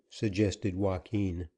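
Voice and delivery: ordinary delivery, nothing marked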